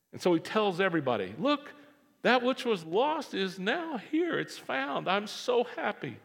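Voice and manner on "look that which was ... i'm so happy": high, slow, beaming announcement; overjoyed shepherd. Acted. Shepherd telling everyone the lost sheep is found, overjoyed. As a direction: proclaim it like the happiest man alive.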